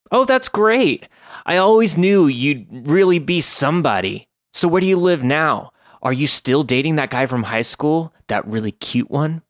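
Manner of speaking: put-on high, squealing valley girl gush; over-excited bubbly girly voice; chirpy valley girl. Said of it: "a chirpy valley girl".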